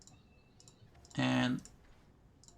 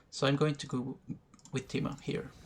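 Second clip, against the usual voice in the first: hiccups. Real, not acted. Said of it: "Sorry, I got the hiccups".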